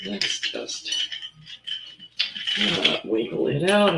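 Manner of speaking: straining to shift the jar; effortful push on the words; opening a stuck jar. Real, not acted. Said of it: "this jar is incredibly heavy".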